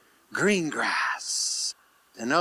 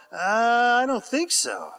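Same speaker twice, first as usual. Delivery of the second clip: disciples' mock doubt; 5 semitones higher than usual. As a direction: balk playfully at the idea. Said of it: "I'm sure the disciples are all".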